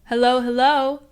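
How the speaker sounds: high, loud cheery robot hollering; a cheerful AI hollering hello; robot yelling. A narrator's reading. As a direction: belt it out like a giddy machine. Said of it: "Basil continued singing loudly right up until he yelled".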